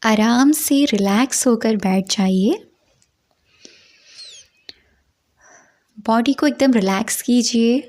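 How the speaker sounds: measured meditation guidance with long pauses; guided meditation. Acted. Teacher guiding listeners into a five senses meditation, measured guided-meditation delivery. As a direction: lead listeners through it unhurriedly, phrase by phrase.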